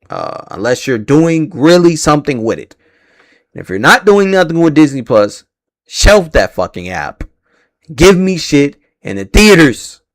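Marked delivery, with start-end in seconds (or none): 3.6-10.0 angry rant. Real, not acted. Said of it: "I'm sorry I'm angry".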